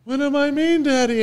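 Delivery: high, loud mock-hurt question; taken-aback dad. Dad questioning his small son's remark, taken aback. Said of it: "And I was like".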